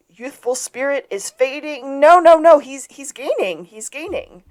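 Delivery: high, mounting track commentary; race announcer. Retold or imitated. Recapper playing the announcer calling the race, mock commentary. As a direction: imitate a race caller correcting himself in surprise. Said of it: "We hear the announcer go".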